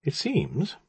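measured, hesitant start; slow. A narrator's reading. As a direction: say it slowly and guardedly. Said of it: "the magician said slowly".

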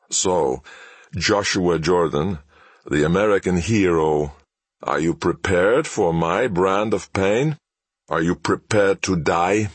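slow, taunting villain drawl; gloating villain. Acted. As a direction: savour every threat slowly. Villain taunting his hostage.

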